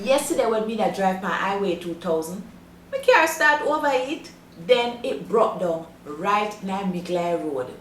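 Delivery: broad Jamaican patois storytelling. Shown as a demonstration. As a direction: tell it in straight Jamaican patois. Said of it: "listen to a straight patois version".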